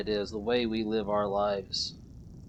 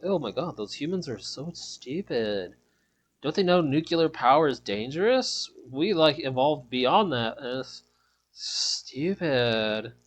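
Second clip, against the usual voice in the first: put-on valley girl; 2 semitones higher than usual. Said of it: "I can do a Valley Girl impression".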